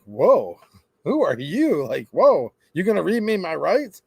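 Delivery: mock-startled customer, drawn-out whoa; hammed-up affronted surprise; taken aback. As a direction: push back in exaggerated disbelief. Customer startled by clerk's command.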